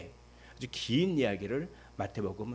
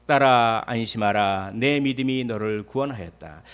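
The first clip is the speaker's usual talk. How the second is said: loud, leading the reading; loud scripture reading; loud unison reading; 9 dB louder than usual. Shown as a demonstration. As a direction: read it out boldly with the church. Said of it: "한번 읽어보도록 하겠습니다".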